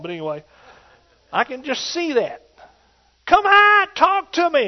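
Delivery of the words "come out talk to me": high, loud shout into the furnace; king's shout. Retold or imitated. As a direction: cry out to the men in the fire. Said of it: "is what Nebuchadnezzar said".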